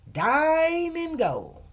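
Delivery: Dine and go, very slowly, high; very slow, spelled-out. Shown as a demonstration. Vendor explaining her truck name, very slowly. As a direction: stretch each word of the name. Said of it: "D I N E G O".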